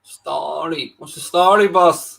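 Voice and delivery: casual mock Dublin greeting; Dublin accent. Shown as a demonstration. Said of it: "I should have the Dublin one down".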